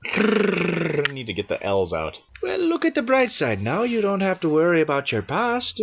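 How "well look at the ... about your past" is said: character line read. Acted. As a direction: lilt it up high, playing a character.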